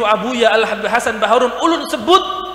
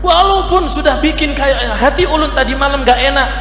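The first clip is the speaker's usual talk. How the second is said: moved exclamation; 5 semitones higher than usual. Real, not acted. Preacher marvels at student's dream.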